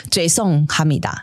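slow mock Chinese-style Korean; imitating bad Korean pronunciation; fake foreign language. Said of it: "就像你刚刚的".

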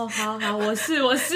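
a quiet, flustered yes-yes to the dentist; flustered, meek agreement. Retold or imitated. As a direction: softly give in, innocent and panicked. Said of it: "他表情超无辜又超慌张". (又无辜又慌张地小声答应)

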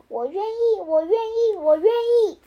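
gleeful, rising storybook shout; overjoyed shout. A narrator's reading. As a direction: shout yes in sheer delight. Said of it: "马上大喊".

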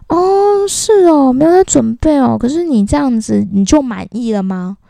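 lightly voiced uncle, sarcastic; mocking old uncle. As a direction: needle her like a nosy elder. Uncle mocking her answer.

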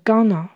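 gonna, going to run together as one word; colloquial contraction. Shown as a demonstration. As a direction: reduce going to into a spoken gonna. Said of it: "在口语上常常会念成gonna".

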